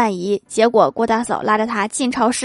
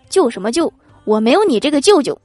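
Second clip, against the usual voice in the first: curt, indignant uncle; still angry; 3 semitones higher than usual. Acted. Uncle rebuffing his apologising nephew, still angry. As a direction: disown him with a touch of temper. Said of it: "看来还在气头上".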